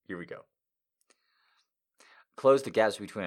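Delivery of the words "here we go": soft, resigned whisper; 1 dread whisper. Real, not acted. Reader dreading the next passage, whispered. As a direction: brace yourself and murmur it.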